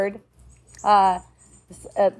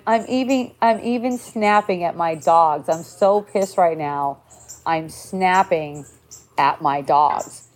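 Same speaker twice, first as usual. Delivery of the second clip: lower, slowing, mock pissed-off friend; quoting upset friend; 4 semitones lower than usual. Friend confessing she snaps at her dogs, mild mock anger. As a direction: drag out the confession of snapping. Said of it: "writing me and going".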